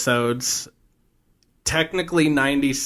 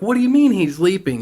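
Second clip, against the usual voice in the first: high, raised-voice retold demand; acted alarmed question; 8 semitones higher, 4 dB louder than usual. Al questions Gushy's screamed news, in mock alarm. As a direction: play Al thrown by the news.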